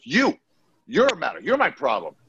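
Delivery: high mock angry yell at the bouncer; coked-up accusation. Coked-up bro accusing the bouncer, high mock anger. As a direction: jab the finger, you're the problem. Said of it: "He goes".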